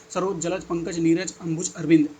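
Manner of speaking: brisk run through memorised synonyms; quick rote recital. Shown as a demonstration. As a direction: rattle the list off by heart. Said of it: "फटाफट जल्दी".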